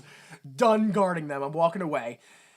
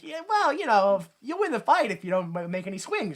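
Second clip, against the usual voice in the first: mock nineties mentor; 4 semitones higher, 3 dB louder than usual. Parodying nineties coach advice.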